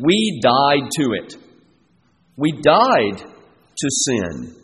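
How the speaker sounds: slow, deliberate "We died to it.", each word set down; slow and final, as a settled fact; emphatic, definitive. Shown as a demonstration. Preacher driving home Paul's point to the congregation, slow and emphatic. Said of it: "saying emphatically and definitively".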